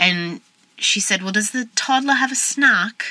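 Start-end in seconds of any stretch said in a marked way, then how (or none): 1.2-3.0 put-on, pitched-up British accent. Retelling what an older mom at church asked: imitating a British accent. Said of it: "'Cause she had a British accent".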